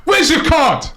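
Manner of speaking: high laughing shout, drawn out. Real, not acted. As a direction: shout it while laughing in disbelief. Reacting to a foul.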